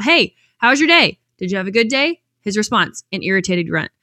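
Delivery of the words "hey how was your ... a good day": bright call across the house to her son. Retold or imitated. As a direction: call out to the son as he walks past. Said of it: "she called out".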